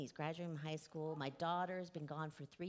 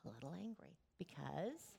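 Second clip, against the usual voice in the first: whispered aside; 6 dB quieter than usual. Acted. Children's leader telling the Bible story, sudden whisper. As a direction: drop to a whisper on the word angry.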